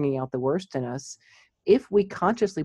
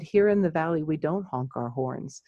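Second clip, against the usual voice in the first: gentle angelic voice. Retold or imitated. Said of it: "in my gentle, angelic voice".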